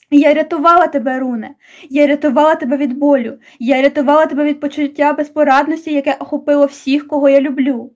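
a touch of a desperate outcry; mild shout. Acted. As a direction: plead angrily with him. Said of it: "щоб крикнути". (легкий відчайдушний вигук)

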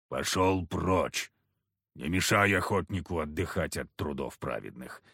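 surly hunter growls get lost; grumbling. Acted. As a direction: growl him away from the door. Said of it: "Уже не проворчал".

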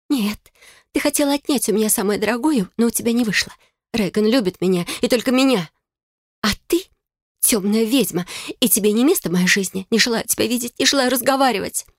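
high, heated, hurt accusation; bitter young sister. A narrator's reading. Bride calling her sister a dark witch, high heated voice. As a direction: lash out high with betrayed fury.

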